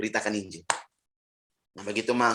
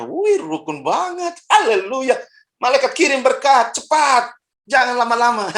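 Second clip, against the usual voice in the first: excited exclamation; 11 semitones higher, 6 dB louder, slower than usual. Acted. Voicing God sending blessing.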